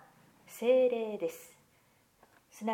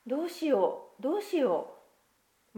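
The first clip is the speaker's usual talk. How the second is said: worried; 6 semitones higher, 5 dB louder than usual. Acted. Children near tears.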